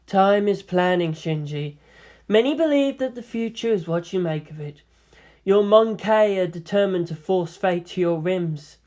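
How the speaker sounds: composed female sage, a touch amused; lightly voiced lofty woman; amused seer. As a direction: counsel him with understated amusement. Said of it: "she radiated amusement".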